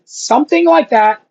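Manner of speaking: ordinary delivery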